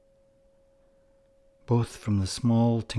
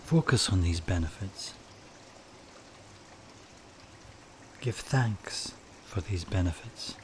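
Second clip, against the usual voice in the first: calm meditation guide with long pauses between phrases; guided meditation; 6 dB quieter than usual. Acted. Meditation leader has listeners picture flowing water, calm guided delivery.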